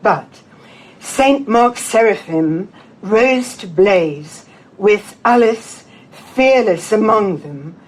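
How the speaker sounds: slow, measured poem recital with deliberate pauses; poetry reading. Acted. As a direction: read verse aloud, phrase by phrase. Reads own poem to audience.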